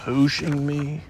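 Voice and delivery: puzzled question, rising on Hooshing; Hooshing said with mild surprise; surprised. Acted. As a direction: Eeyore caught off guard by Hooshing me. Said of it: "said Eeyore in surprise".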